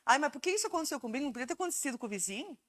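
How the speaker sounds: fast whiny self-pitying complaint; mock self-pity. Grieving person whining about why me, mock self-pity. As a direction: whine like the world is unfair. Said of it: "A revolta".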